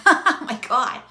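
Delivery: loud, high gasp of amazement; shocked learner reaction. Retold or imitated. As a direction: blurt it out like a stunned user. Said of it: "where you're like".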